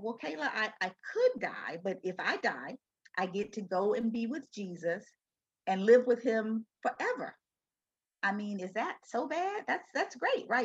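gentle, upbeat retold comfort; retold reassurance. Mother consoling her daughter about dying, gently reassuring.

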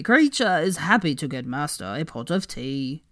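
lightly voiced servile elf; eager little elf servant, slow; house-elf voice. Kreacher voiced in story.

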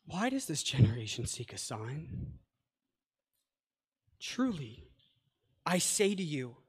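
Jesus sighing over a sign-seeking generation; deep sigh, disappointed. Acted. Preacher voicing Jesus, sighing and disappointed. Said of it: "he sighed deeply in his spirit and said".

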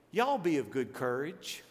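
slow Southern drawl on a translation; leisurely Southern lilt, rising on y'all; Southern y'all accent. Acted. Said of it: "with that accent".

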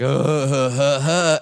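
imitated dopey laugh of a class; mocking class laughter. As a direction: laugh along like a whole classroom. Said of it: "everyone in class was like".

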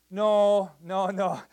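loud, firm "No, no, no"; emphatic no. Real, not acted. Pastor rejecting a boast of three hundred saved, loud and emphatic. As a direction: shut the claim down hard. Correcting claim of mass conversions.

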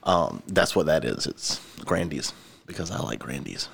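talking between sips of a drink; while sipping a drink. Real, not acted. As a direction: speak around a sip of soda. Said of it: "So if you hear me drinking".

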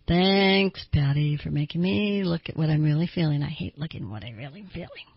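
grudging thanks. Acted. Person made to face their real feelings thanking Patty, grudgingly. Acts out reluctant self-examination.

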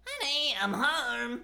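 high squeaky Australian lunatic yelling a greeting; squeaky Junkrat voice. Shown as a demonstration. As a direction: squeeze it up high and manic like a skinny bomber. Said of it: "really squeaky voice".

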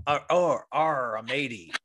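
slow, hammed-up pirate accent telling a joke. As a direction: growl the pirate joke slowly, half-laughing. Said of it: "with me pirate accent".

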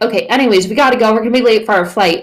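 busy and dismissive; hurried brush-off. Acted. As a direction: hurry them along, already leaving. Acts out hurried people brushing Jesus off.

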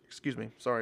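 quiet after a hiccup; soft apology after a hiccup. Real, not acted. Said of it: "I keep hiccups and burps".

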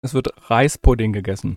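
talking through a mouthful; mouth full. Real, not acted. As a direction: speak around a bite of pudding. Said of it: "Du musst mit vollem Mund sagen".

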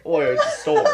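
loud, high bad British accent, on the edge of laughter; hammed-up British exclamation; horrible British accent. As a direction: yelp it in mock British. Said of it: "a horrible British accent".

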